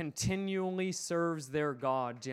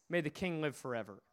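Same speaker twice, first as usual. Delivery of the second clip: quiet, unoffended; 6 semitones lower, 7 dB quieter than usual. Retold or imitated. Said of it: "The unoffendable heart".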